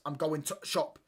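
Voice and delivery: mock Yorkshire, "to shop" with the "the" swallowed; Yorkshire accent. Shown as a demonstration. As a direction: imitate Yorkshire speech, clipping "the" out before "shop". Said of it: "they miss out so many words".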